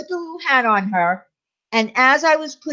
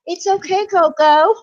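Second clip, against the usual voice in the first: high, raised call to the cat; calling out comfort; 9 semitones higher, 4 dB louder than usual. Retold or imitated. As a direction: call out reassurance to a whining cat. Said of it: "yell into her".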